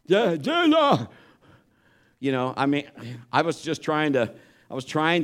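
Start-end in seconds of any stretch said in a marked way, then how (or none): 0.1-1.1 mock tongue-tied cry, jumping high; imitating scared stammer. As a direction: act out struggling to get a word out in a nightmare. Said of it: "you can't 'cause you're just too scared".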